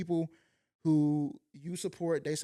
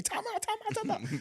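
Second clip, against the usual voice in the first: mock yelling; 4 dB quieter than usual. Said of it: "They yelling at me".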